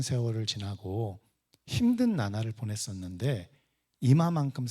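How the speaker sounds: a hint of someone settling for enough; lightly acted, low-pitched self-satisfaction; mock complacency. Voicing the world's complacent talk.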